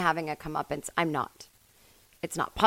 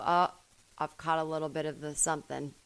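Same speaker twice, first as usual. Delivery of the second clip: dying cat voice; 3 semitones lower, 5 dB quieter than usual. Retold or imitated. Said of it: "British, but without the accent".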